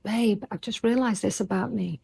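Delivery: gentle, calm talk with her husband. Retold or imitated. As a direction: speak it calmly, without blame. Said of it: "in a calm way".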